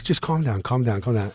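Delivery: softly retold, trying to calm a friend down; quiet, low mock reassurance. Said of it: "he's trying to calm me down".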